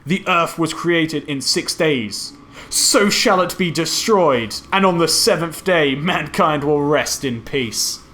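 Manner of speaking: slow, declaimed movie-villain line; mock-grand villain proclamation. Podcaster quoting Shao Kahn's exact line, grand proclamation.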